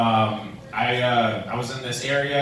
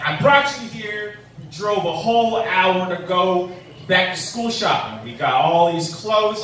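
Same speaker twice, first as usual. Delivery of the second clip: higher, louder mock scolding from a fed-up mom; 4 semitones higher, 4 dB louder than usual. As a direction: nag the kid in public, hammed up. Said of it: "this mom was scolding her kid".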